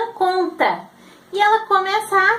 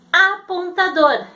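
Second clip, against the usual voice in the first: slowed word; slower than usual. Shown as a demonstration. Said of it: "Ela vai pensar".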